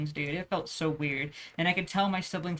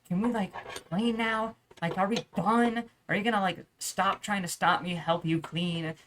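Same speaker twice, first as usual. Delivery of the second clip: retold exasperation. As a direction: drag the words out in mild exasperation. Acting out exasperated plea to brother.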